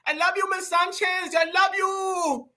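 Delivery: high, drawn-out fake Latino accent; mock Latino accent. Vlogger mimicking her talking to the Latinos, mock Latino accent. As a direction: put on a hammed-up Latino accent. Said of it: "when she was talking to the Latinos".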